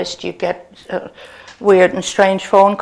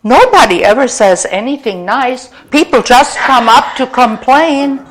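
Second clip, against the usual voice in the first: mildly astonished manager, a little higher; imitating astonished manager; 4 semitones higher, 4 dB louder than usual. Stunned manager answers an unexpected compliment, mock astonishment. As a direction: retell it as a dumbfounded manager. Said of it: "his chin dropped to the floor".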